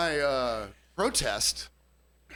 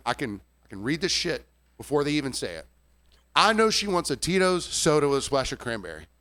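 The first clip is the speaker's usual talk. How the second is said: usual speaking voice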